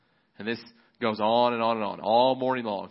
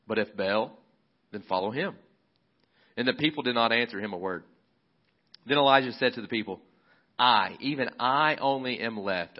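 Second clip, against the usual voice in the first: raised, measured Bible reading voice; scripture reading. Acted. Pastor reading the Elijah story aloud to church, measured and raised. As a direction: read the passage out to the congregation.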